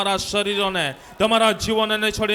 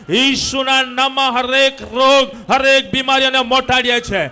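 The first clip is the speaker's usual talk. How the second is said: rousing healing-service preacher; rally the congregation to declare it with you; forceful preaching; 3 semitones higher, 6 dB louder than usual. Real, not acted. Preacher leads congregation in loud declaration.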